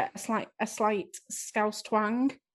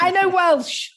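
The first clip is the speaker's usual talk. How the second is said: high laughing brag, louder; 8 semitones higher, 8 dB louder, slower than usual. Real, not acted. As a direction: laugh through the words, pleased with yourself.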